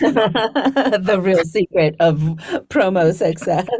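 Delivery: slow, amused words through laughter; laughing. Real, not acted. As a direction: laugh while saying it. Laughing at joke about money.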